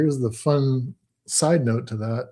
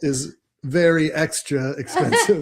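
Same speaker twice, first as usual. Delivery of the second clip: laughing; 3 semitones higher than usual. Real, not acted. Co-host joins the joke laughing.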